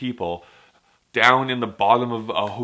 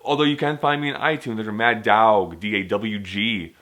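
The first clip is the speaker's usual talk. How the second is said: lightly mock rapper. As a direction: casually play a wannabe rapper. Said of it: "turned into Jesse Pinkman".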